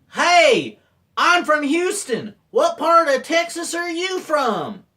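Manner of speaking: high, loud, drawn-out call; hailing passenger. Retold or imitated. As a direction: imitate a hearty passenger from Houston. Houston passenger hailing fake Texan guide.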